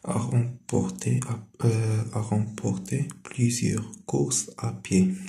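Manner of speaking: very slow, word by word, like a dictation; slow dictation reading. Shown as a demonstration. Teacher reading a French example to pupils, slow dictation. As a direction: read it so pupils can copy along.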